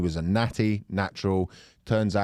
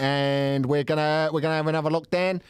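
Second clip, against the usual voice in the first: put-on Aussie-accented spoof of a Chinese leader; comic Australian accent for an official address; mock Australian accent; 4 semitones higher than usual. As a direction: play a president in broad Australian. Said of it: "go for Australian".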